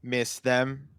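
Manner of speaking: slow, halting robot with long pauses; sad robot. Pretend. Co-host tells listeners they are held hungry, as a sad robot. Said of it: "You sound like a sad robot".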